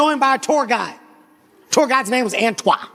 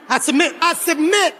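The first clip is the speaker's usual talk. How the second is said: panicked surrender; 4 semitones higher than usual. Retold or imitated.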